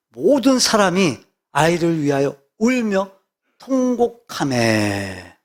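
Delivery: measured, drawn-out reading; slow scripture reading. Real, not acted. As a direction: read the verse slowly and deliberately. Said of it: "오십이 절 볼까요?". (성경 구절을 천천히 낭독하듯)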